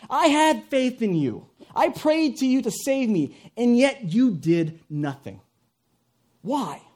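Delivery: high, loud, slow protest; indignant complaint. Acted. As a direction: demand an explanation, word by word. Drowned man's complaint to God.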